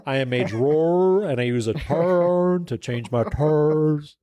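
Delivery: "drawer" and "turns" stretched into long r sounds; slow, mock-proud, dragging the r in "drawer"; playful drawled r-words. Artist joking to co-host about being a drawer, playful drawled r-words.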